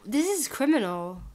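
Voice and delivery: loud, indignant "This is criminal"; indignant declaration; outraged. Real, not acted. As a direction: condemn it with heat. Outraged at the video.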